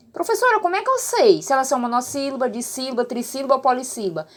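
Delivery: imagined pupil's question. Acted. Pupil asking the teacher how to classify syllables, lightly mimicked. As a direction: ask it quickly, as a pupil would.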